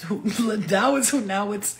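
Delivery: laughter breaking into the fake biblical line; mock Jesus talk, laughing. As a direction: try the holy voice again but crack up. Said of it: "talk like, like Jesus".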